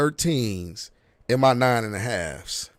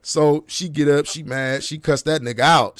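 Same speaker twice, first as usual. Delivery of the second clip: usual speaking voice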